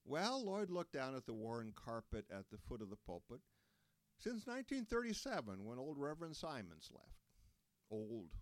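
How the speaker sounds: hesitant elder admitting it; Lloyd's voice. Acted. Lloyd answers, looking down.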